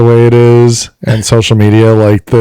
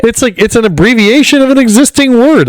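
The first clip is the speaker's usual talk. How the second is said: higher, fed-up complaint; exasperated rant; 10 semitones higher than usual. Real, not acted. Griping to his cohost about slang, exasperated and high. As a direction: vent the irritation, raised pitch. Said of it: "I don't know why it bothers me so much".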